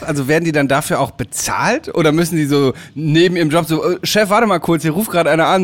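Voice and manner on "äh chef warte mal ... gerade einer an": Swede at work. Pretend. Acted Swede interrupted at work.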